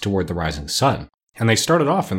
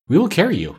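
monkey king; 8 semitones higher than usual. A narrator's reading. Monkey king promises to carry Dorothy, higher and eager. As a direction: answer like a playful monkey king.

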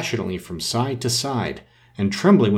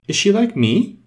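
eager, much higher question; 11 semitones higher, 3 dB louder than usual. A narrator's reading. Alice asking the Rose about the girl, eagerly much higher. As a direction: ask it with quick hope. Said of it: "Alice asked eagerly".

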